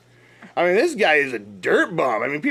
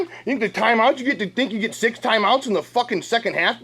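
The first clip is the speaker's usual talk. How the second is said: mock angry rant; 4 semitones higher than usual. Mocking rant at the Bears.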